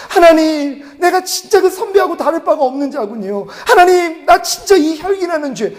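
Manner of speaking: high, pleading cry to God. Retold or imitated. Repenting alone in prayer, a high pleading cry. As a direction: lift the voice in a broken plea. Weeping prayer after rebuke.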